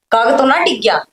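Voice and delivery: loud, emphatic quarrelling voice; loud retort. Acted. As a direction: throw it back loudly in a family row. Acted quarrel, sister-in-law retorts. (ज़ोर से पलटकर जवाब)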